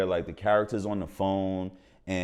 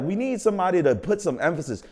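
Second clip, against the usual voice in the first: director voice; 8 semitones higher than usual. Retold or imitated. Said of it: "She was like".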